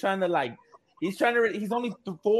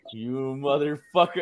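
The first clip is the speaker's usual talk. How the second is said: laughing scold; 2 semitones lower, slower than usual. Retold or imitated. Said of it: "We're like".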